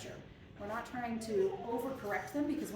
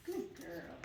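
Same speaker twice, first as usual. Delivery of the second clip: soft, lower murmur of praise; low hushed praise; 4 semitones lower, 7 dB quieter than usual. Real, not acted. Trainer praising a wound-up dog, low and hushed. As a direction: keep it hushed and calm. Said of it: "keeping my tone low and almost hushed".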